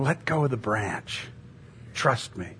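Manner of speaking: soft, measured voice of God; calm command. Acted. God reassuring the hanging hiker, calm command. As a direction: say it quietly, with steady assurance.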